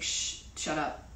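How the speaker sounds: a whispered shush to herself, imitating; mock shushing whisper. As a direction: hush yourself in a breathy aside. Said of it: "and it's just like".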